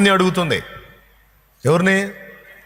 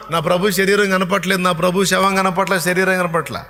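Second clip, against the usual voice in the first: wailing Mary; 5 semitones higher than usual. Acted. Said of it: "అని మొత్తుకుంటా ఉంది".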